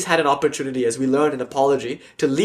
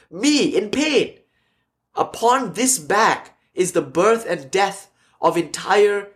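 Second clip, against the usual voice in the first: slow, raised, declamatory retelling; grand disbelief; 4 semitones higher, much slower than usual. Retold or imitated. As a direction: play a swami loftily dismissing pain. Swami grandly scorns his pain.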